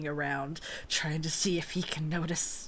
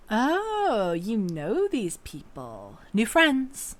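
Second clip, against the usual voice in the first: offhanded; 4 semitones higher, slower than usual. Acted. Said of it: "offhandedly says to Scar".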